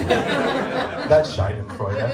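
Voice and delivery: slow, laughing delivery of the word; chuckling as you name it. Real, not acted. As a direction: savor it through a chuckle. Savoring the word slowly.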